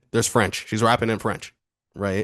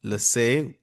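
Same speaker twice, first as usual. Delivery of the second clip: slow, careful attempt at a French accent. Shown as a demonstration. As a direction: recite it slowly in an amateur French accent. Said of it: "That's my French accent".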